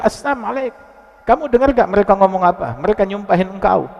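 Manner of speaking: high-pitched, pressing complaint; acted exasperation at an insult; indignant protest. Aisyah protests the insult she heard.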